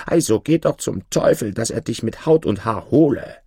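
mildly angry curse; angry woman. Acted. Woman cursing her stray pig, understated anger. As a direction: scold with a touch of temper. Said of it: "im höchsten Ärger rief".

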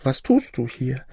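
a maiden's tearful warning about the dragon. Acted. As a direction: warn him in a rush, close to tears. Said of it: "Sie weinte".

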